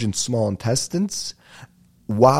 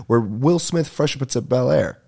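rattled off fast; said quickly; 4 semitones higher than usual. Shown as a demonstration. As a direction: say it all in one quick breath. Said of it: "I say it so quick".

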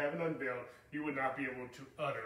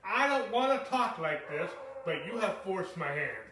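paraphrasing Paul; 4 semitones higher, 6 dB louder than usual. Retold or imitated. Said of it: "and I'm paraphrasing".

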